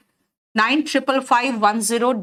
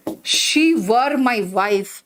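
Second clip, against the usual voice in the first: mock Salman voice; much slower than usual. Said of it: "Salman Khan आया".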